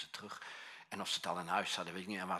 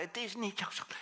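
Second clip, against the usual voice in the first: much higher, pressing cry; shouted; 11 semitones higher than usual. Retold or imitated. Pastor, asked for even harder, cries it out to counselee. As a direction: push it harder still. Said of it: "Pastor, nog harder".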